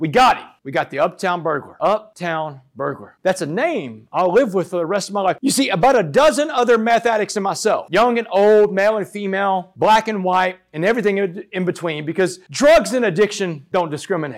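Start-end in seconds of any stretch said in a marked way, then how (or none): none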